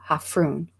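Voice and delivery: Hafrún with the stress on HAF; "Hafrún" as HAF-roon, stressed at the front; stress on first syllable. Shown as a demonstration. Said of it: "stressing the first syllable".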